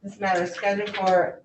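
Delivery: official courtroom read-out; formal case call. Real, not acted. Clerk calling a case before the judge, formal announcement. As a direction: read the charges formally into the record.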